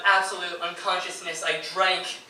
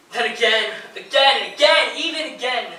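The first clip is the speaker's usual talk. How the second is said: climbs higher and louder with each again; building anguished cry; 6 semitones higher, 8 dB louder than usual. Acted. Husband reliving each relapse of his wife, rising cry. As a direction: let each again rise into a cry of despair.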